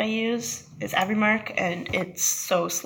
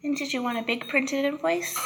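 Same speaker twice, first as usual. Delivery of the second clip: customer service voice; 4 semitones higher than usual. Real, not acted. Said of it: "Do you like my customer service voice".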